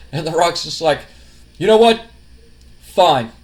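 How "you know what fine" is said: mock exasperated outburst. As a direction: blurt it out, fed up. The Rock snaps back.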